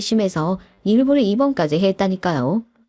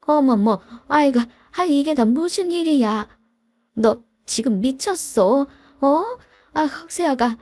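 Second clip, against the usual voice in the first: higher, startled and scolding; shocked mother-in-law; 4 semitones higher than usual. Acted. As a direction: gasp at the scene, then scold the daughter. In-laws find daughter-in-law fallen. (놀라서 높아진 시어머니 목소리)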